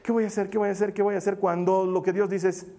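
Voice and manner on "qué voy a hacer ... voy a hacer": softer, quick, looping worry; worried night-time thoughts. Acted. Pastor acting a sleepless debtor thinking about the bank, mildly anxious. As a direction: fret under your breath, one thought tumbling into the next. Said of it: "pasar la noche en vela pensando".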